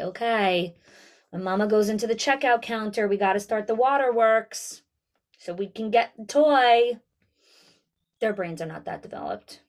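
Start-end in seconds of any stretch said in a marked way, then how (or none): 0.0-7.0 lightly voiced toddler planning the waterworks; scheming toddler. Toddler plotting to cry for a toy, lightly voiced scheming kid. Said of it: "Toddlers do not come into Walmart and say".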